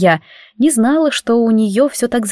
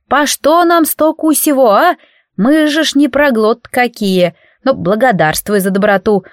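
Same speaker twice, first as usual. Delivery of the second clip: oohing house spirit; 3 semitones higher than usual. Acted. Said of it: "охала Маруся".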